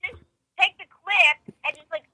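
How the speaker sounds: tinny speakerphone voice. Real, not acted. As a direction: voice coming through a phone speaker. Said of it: "You're on speaker and on air".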